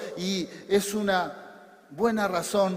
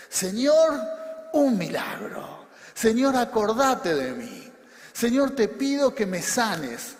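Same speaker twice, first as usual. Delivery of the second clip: raised prayer plea; 4 semitones higher, 4 dB louder than usual. Acted. Models a believer's plea to God.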